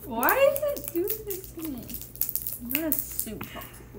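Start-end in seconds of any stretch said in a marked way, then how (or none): 0.0-1.8 laughing while struggling; strained laugh at the wrapper; laughing frustration. Real, not acted. Struggling to open candy, laughing.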